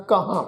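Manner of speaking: ਕਹਾਂ with a nasal long a, "kahaan"; nasal pronunciation. Shown as a demonstration. Teacher shows the class a nasal ਕਹਾਂ. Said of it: "ਕੰਨਾਂ ਉੱਪਰ ਬਿੰਦੀ ਸਹਿਤ ਪਾਠ".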